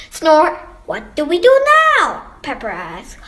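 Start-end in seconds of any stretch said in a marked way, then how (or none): 0.1-0.6 louder, higher snore word; acted snore word. A narrator's reading. Sleeping sound read in story. 0.9-2.2 high, loud, quick question; eager child's question. A narrator's reading. Child asks at sleepover.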